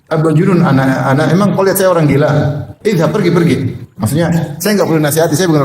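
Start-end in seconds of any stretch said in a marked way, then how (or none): 0.1-3.6 angry retort. Retold or imitated. Angry man rebuffs advice.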